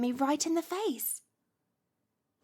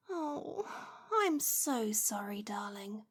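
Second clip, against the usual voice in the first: whispered, lower, mock-tender apology; soft whisper; 5 semitones lower, 6 dB quieter, slower than usual. Witch whispering fake sympathy to her pained familiar. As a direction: coo a fake apology in a hush.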